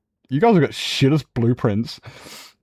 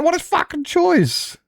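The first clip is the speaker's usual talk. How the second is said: sarcastic scoff. Real, not acted. Scoffing at the offered choice.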